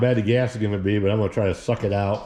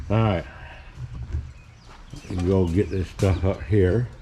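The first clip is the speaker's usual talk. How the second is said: talking around a flashlight held in teeth; muffled speech with something in mouth. Real, not acted. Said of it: "Sorry, I got my flashlight in my mouth".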